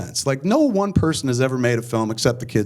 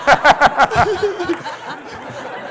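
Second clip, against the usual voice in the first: laugh; 13 semitones higher, 4 dB louder than usual. Real, not acted. Laughs at own story ending.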